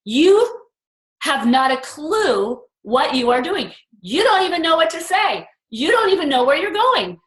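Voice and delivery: mock the voice that says you can't; lightly voiced self-doubt, accusing; accusing inner voice. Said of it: "And the voice came and said".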